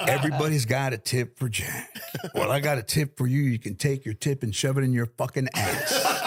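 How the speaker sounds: lightly voiced gruff Jack, laughing through it; a hint of Jack telling off the tipper; Jack's voice. Jack snapping at a man offering tips, lightly imitated. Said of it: "those two dudes fighting with those voices".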